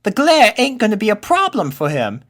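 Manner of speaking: high, bright-eyed colt voice, loud and eager; a plucky little colt taking charge of the order; young colt Pip. Acted. Pip telling friends the marching order, high colt voice.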